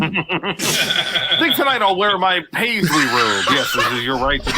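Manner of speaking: laughing. Retold or imitated. Acting out the movie dialogue.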